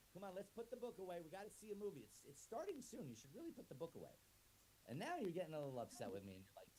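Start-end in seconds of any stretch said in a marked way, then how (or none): 0.1-4.1 higher, pleading nag; higher pestering plea. Acted. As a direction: whine at them to put it down.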